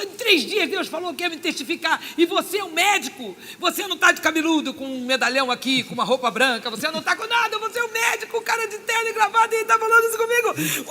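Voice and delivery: high, loud retold astonishment; incredulous outburst. Marvelling at a doctor in suit and tie, incredulous outburst. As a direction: build into high-pitched, loud disbelief.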